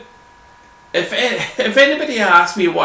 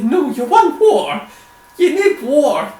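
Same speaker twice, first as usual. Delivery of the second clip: higher, urgent insistence; excited; 11 semitones higher, 4 dB louder than usual. Real, not acted. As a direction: push it up, insisting. Rant about needing water.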